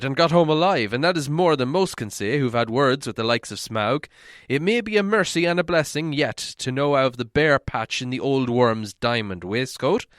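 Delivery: put-on an old dwarf soothing a friend; Balin.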